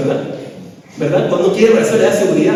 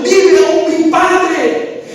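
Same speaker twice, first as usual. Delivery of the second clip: slow, high, broken with tears; José weeping as he reveals himself; tearful; 5 semitones higher, much slower than usual. Acted. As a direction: say it slowly as though about to weep.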